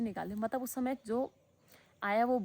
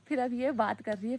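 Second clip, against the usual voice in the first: laughing; 3 semitones higher, 5 dB louder than usual. Real, not acted. Laughs retelling nurses' remark.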